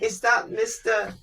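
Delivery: high, slow caller voice; mock cold caller. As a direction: drag out the sales opener. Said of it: "And they go".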